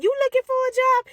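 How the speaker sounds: high, loud surprised question; a manager caught off guard. Retold or imitated. Manager surprised by the little girl, high and loud.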